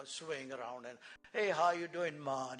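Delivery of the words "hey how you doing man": swinging West Indian greeting; rhythmic, lightly put-on West Indian lilt; West Indian accent. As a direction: imitate West Indian talk with a falling "maan". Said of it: "this is how they talk".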